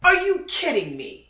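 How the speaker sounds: high, loud shocked outburst; shocked disbelief. Real, not acted. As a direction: blurt it out in disbelief. Shocked at death sentence news.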